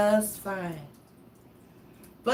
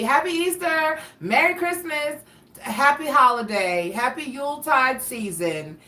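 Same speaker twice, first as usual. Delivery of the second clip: lightly mocking cheerful greetings, higher; mocking greeters; 5 semitones higher than usual. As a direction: parody the chirpy well-wishers, pitched up. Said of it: "people telling me".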